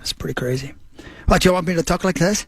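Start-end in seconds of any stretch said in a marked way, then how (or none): 1.2-2.5 put-on Irish lilt; Irish accent. Shown as a demonstration. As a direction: show off your Irish accent. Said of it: "nailing my Irish accent".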